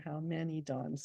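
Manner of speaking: slowed, pause before dawns; how many dawns, with a break before DAWNS; trochee after caesura. Shown as a demonstration. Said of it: "a trochee after a slight caesura".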